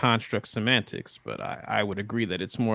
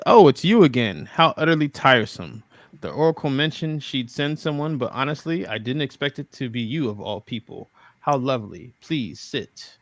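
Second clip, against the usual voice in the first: regency aristocrat; 3 semitones higher than usual. Acted. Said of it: "Okay, he says".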